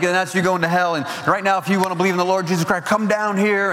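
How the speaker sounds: high, pushing preacher appeal; retold altar call. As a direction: urge them forward like a revival preacher. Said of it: "And he's like".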